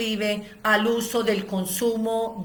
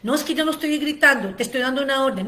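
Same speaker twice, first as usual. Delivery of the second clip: mock defensive father; 3 semitones higher, much faster than usual. Acted parent-child quarrel, father.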